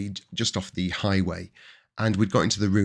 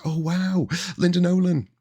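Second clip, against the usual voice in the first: The starstruck greeting squealed much higher, awed; starstruck gush; 10 semitones higher than usual. Retold or imitated. Recalling meeting a singer on the pier, starstruck squeal. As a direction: relive the thrill of meeting a star, pitched way up.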